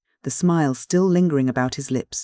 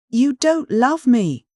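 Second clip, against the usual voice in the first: slow, much higher and louder disbelieving cry; stunned cry; 10 semitones higher, 5 dB louder, much slower than usual. A narrator's reading. Jilted suitor cries out in disbelief at the widow, loud and slow. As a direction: cry it out in disbelief, stretching every word.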